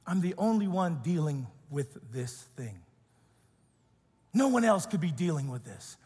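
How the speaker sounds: low, soft, weary loop of self-pity; repetitive despairing voice. Retold or imitated. Preacher voicing Elijah's lonely despair, low and soft weary. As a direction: say it like a thought you can't stop repeating. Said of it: "Elijah's repetitive voice".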